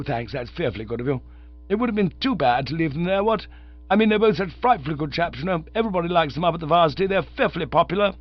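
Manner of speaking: a chirpy undergraduate rattling on; young Oxford chap. Acted. Visitor asks to borrow a tenner.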